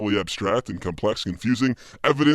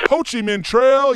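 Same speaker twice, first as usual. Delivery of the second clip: surprised; 4 dB louder, slower than usual. Pretend. Trucker surprised on CB.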